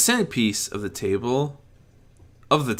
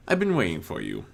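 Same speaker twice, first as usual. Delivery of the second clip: soft and gentle; 4 semitones lower, faster than usual. Acted. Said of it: "the figure interrupted softly and gently".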